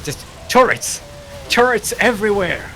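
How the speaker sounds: exasperated player, lightly acted; mock player voice. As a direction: ham up the player swearing off Mutalisks. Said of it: "Knock Knock is like".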